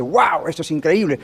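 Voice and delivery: slow, hushed amazement; awed wow. Retold or imitated. Visitor standing in a grand cathedral, slow awed wonder. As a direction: let the wonder of the place slow you down. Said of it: "Usted ve ciertas cosas y dice".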